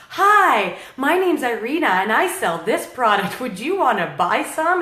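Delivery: hammed-up chirpy salesgirl pitch; awkward club pitch. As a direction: play the clueless seller at a club. Mock pitch on dance floor.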